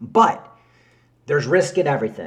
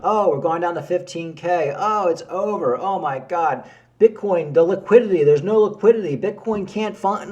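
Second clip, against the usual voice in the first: higher-pitched, singsong imitation of complainers; mock complaining; 3 semitones higher than usual. YouTube commenters bemoaning Bitcoin's fall, mock complaining. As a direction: mimic people moaning in the comments. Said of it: "You'll see people just complaining".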